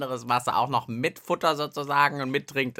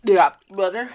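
breathless call; 3 semitones higher, 9 dB louder than usual. Real, not acted. Just came out of water.

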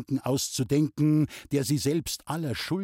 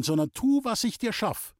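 angry; 9 semitones higher than usual. Acted.

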